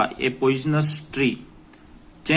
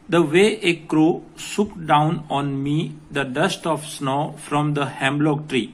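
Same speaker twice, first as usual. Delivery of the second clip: slow, deliberate line-by-line reading; measured classroom recitation; poem reading; much slower than usual. Acted. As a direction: read the verse out slowly for students. Reads the poem line aloud.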